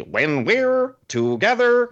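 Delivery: high, slow screamed line; screaming lyrics. Retold or imitated. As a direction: shriek it like a trivia host. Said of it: "screams them like that".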